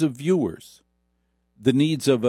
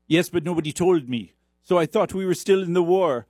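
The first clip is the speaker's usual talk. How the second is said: mock European accent; 6 semitones higher than usual. Acted drama, foreign character.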